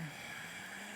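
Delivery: soft, lazy lizard hiss; breathy hiss like a sleepy iguana; lazy hissy iguana. Pretend. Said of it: "That is my impression of an iguana".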